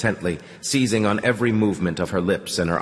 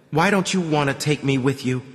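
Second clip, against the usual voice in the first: higher-pitched, hurt protest; 7 semitones higher than usual. A narrator's reading. Girl objects to being left behind, protesting. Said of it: "she protested".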